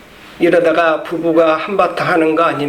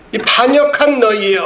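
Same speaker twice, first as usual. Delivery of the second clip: a mildly raised mock shout, 반역한 falling hard; retold shout; 4 semitones higher than usual. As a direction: cry out 이 반역한 너희여 at the rebels, half-acted. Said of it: "하고 소리를 지릅니다".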